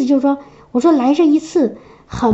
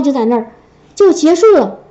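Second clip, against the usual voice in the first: normal talking voice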